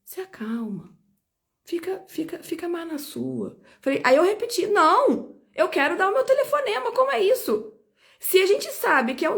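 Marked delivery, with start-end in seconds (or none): 0.0-3.6 gentle calming. Retold or imitated. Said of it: "Veio um gentil e falou assim". 4.7-7.7 indignant protest. Retold or imitated. Retold protest to the police.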